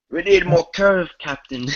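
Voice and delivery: a spaceship crewman yelling up to the captain; panicked crewman. Pretend. Playing crew in the script.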